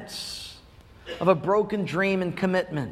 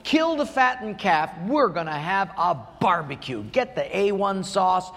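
joyful call. Acted. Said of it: "and yelled to the servants".

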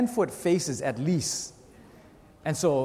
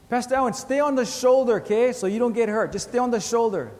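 raised and louder, calling out the warning; friend's warning; 5 semitones higher, 3 dB louder than usual. Retold or imitated. Surfing friend warns the pastor to stay back, raised and louder. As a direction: shout the advice to him over the water. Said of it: "he says to me".

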